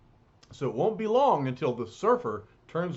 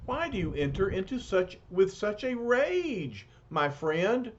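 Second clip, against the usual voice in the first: puzzled noble voice; 5 semitones higher than usual. Acted. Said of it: "And the surfer asks".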